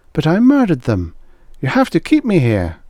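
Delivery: high, loud insistent pleading; frantic woman insisting on her guilt; desperate plea. A narrator's reading. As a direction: beg them to keep you. Begging to stay locked up.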